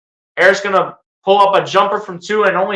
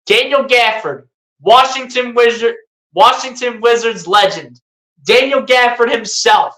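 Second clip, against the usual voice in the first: mock-grand introduction of a legend; sarcastic praise; 4 semitones higher than usual. Real, not acted. Fan mock-introducing the fouling player, sarcastic announcer praise. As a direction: hype him up with obvious sarcasm. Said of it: "you guys know I'm being sarcastic".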